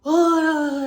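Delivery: a big high loud "Oh" as if hit by a stink; mock disgusted gasp. Teacher pretends diaper stinks, loud hammed-up disgust. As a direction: pretend the smell knocks you back. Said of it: "reacts to the diaper smell".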